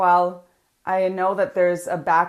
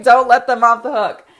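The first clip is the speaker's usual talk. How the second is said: "Don't let them off the hook" said louder, "Don't" punched; louder repeat; 4 semitones higher, 11 dB louder than usual. Shown as a demonstration. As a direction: hammer the rule home, louder. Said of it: "and write this down".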